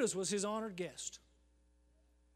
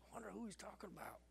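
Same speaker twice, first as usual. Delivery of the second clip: mock wondering; 17 dB quieter, much faster than usual. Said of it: "we'll all go".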